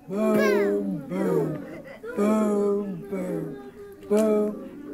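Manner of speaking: low, deep booms with the class. Shown as a demonstration. Teacher leading children in low drum booms. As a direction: keep the booms low and heavy. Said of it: "Let's hear it".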